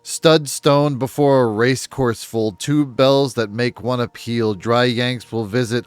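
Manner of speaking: slow, deliberate reading from a book; measured recital of baffling prose; reading aloud. Acted. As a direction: spell out each odd phrase slowly. Reads nonsense passage from book aloud.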